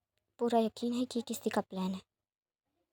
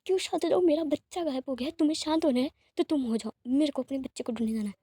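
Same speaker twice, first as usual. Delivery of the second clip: angry outburst; 3 semitones higher than usual. Acted. Wing refuses to calm down, child missing, angry. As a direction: snap back in desperate anger.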